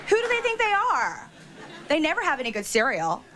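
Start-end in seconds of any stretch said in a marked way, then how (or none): 0.1-1.3 mock snooty. Mock snooty gossip with laughter.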